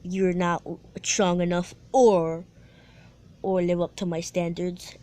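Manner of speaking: scoffing. Retold or imitated. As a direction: look down on him lightly. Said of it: "Sasuke just scoffs and said".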